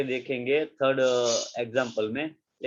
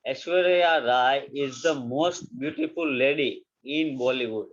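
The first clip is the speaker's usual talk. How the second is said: slow, spaced-out example sentence; slow dictation; slower than usual. Shown as a demonstration. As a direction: read it slowly so they can copy. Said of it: "Aishwarya Rai Bollywood में સૌથી વધારે સુંદર છે।". (धीरे-धीरे लिखवाना)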